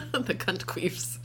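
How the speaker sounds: slow, booming announcer read; fighting game announcer call. Shown as a demonstration. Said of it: "like, announcer voice".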